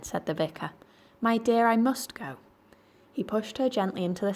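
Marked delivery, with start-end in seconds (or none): 1.2-2.4 firm insistence. Acted. Vicar insists to wife.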